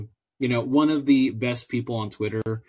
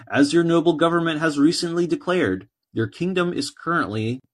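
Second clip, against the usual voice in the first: put-on terrible American accent. Podcaster reading a prisoner's letter to the king, in a hammed-up American accent. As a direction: read the letter like a self-mocking American orator. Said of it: "I'm gonna read it in my terrible American, uh, you know, groaning accent".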